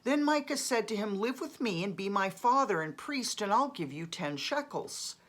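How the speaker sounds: lively, lifted narration with rising phrase openings; scripture read-aloud. A narrator's reading. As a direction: read the story out clearly, starting phrases high. Reads Bible passage aloud.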